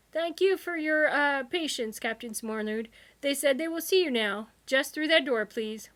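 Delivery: high, loud, stiffly polite clerk; polite receptionist. A narrator's reading. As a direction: usher them in politely. Receptionist voice held.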